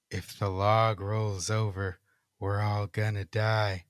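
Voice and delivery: slow, low eerie chant. Acted. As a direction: drone it out slowly like a ghost. Ghostly voice repeats.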